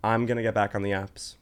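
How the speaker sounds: hushed confession whisper. Real, not acted. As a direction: whisper it like a secret. Confessing a secret.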